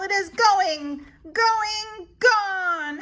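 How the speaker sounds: excited build. A narrator's reading. Narrator calling the home run, excited and loud. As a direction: call it like the ball is flying out.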